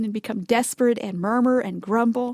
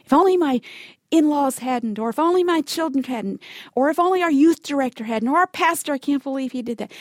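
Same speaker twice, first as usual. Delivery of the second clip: higher-pitched mock complaint; blaming; 3 semitones higher than usual. Finding yourself blaming other people in your desert, blaming. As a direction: act out pinning it all on others. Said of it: "blaming other people".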